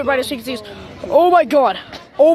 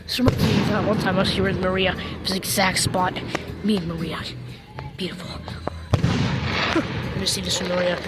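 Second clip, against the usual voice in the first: mock mourning; 10 semitones lower, 5 dB quieter, faster than usual. Mourning Maria at fireworks.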